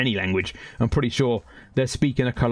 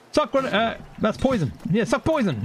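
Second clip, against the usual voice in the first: gloating taunt; 8 semitones higher than usual. Real, not acted. Gloating at game enemy.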